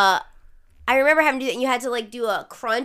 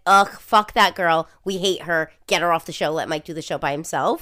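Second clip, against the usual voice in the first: lower-pitched imitation of haters; mock disgruntled listeners; 5 semitones lower than usual. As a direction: grumble as the show's hostile critics. Voices her hostile listeners' complaints.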